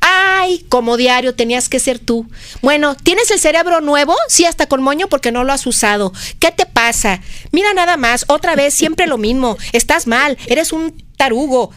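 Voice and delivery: lightly acted exasperated telling-off; scolding boss. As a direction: scold an employee in mock exasperation. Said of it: "confunde la retroalimentación con regañazón".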